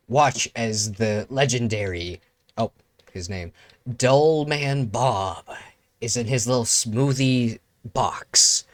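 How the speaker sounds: slow, drawn-out documentary narrator; nature documentary narration. Pretend. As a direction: savour each word like a wildlife host. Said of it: "This nature documentary is so amazing".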